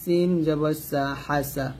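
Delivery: measured recitation, long-held letter names; slow, even Qaida chant for learners to follow; Quran spelling drill. Shown as a demonstration. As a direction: spell it out rhythmically, syllable by syllable.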